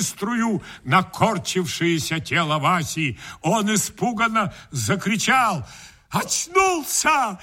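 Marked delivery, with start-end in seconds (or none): 6.1-7.4 high, slow stagey joy; hammed-up delight; overjoyed. A narrator's reading. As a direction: cry out in relief. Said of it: "обрадовался я".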